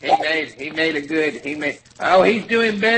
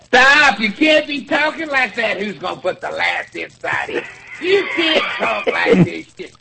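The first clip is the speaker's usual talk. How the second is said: mock scolding; 2 semitones higher than usual. Host pretending to scold his co-host for his talk. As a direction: scold him, half joking.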